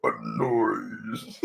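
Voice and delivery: rough strained monster growl; rasping strained mutant. Acted. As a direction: rasp it out like a brute. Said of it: "the Super Mutant impression".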